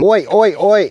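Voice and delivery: high, loud greeting holler; calling out. Acted. Greeting viewers with a catchphrase, calling out high and loud.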